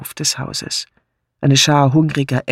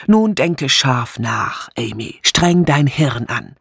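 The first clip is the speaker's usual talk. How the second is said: slow, deliberate instruction; urging concentration; slower than usual. Acted. Martha coaching Amy to think hard, slow and insistent. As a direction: spell it out slowly, word by word.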